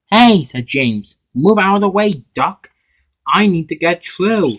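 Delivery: loud, high, cross yell at Duck; cross shout. Acted. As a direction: order him out of the way, annoyed. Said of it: "he said crossly".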